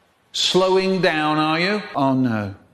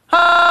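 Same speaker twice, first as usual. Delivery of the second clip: shriek; 14 semitones higher, 5 dB louder than usual. Acted. Sudden cry.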